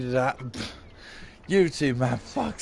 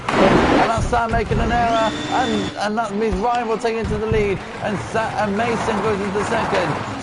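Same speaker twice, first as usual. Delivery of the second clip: excited commentary; 6 semitones higher than usual. Acted. Commentator reacting to Sam's sudden error, excited call. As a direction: jump up as the error happens. Sam crashes mid-commentary.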